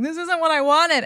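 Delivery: high, let-down complaint; disappointed quote. Retold or imitated. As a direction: sound disappointed at the gift. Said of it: "you get something and you're like".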